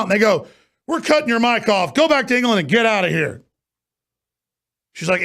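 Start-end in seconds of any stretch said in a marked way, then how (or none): 0.9-3.4 higher-pitched imitation of a brusque order; retold curt dismissal. Host imitating officials cutting off her mic, brusque dismissal. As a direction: order her out in a raised, mocking voice. Acts out parliament's dismissive reply.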